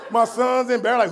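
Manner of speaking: ordinary delivery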